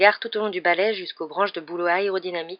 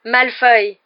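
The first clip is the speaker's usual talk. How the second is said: exclamation; 5 semitones higher, 9 dB louder than usual. Acted. Ron s'exclame en riant.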